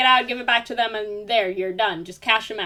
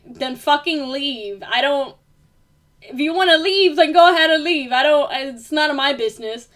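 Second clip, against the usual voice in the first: building to a higher, louder yell; angry retort; 4 semitones higher, 5 dB louder than usual. Retold or imitated. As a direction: tell her off, getting hotter each line. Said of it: "I was like".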